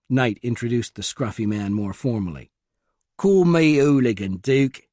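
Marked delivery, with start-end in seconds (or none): 3.2-4.9 put-on louder East London accent, insisting. A narrator's reading. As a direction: East London geek insisting on his nickname. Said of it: "an East London accent".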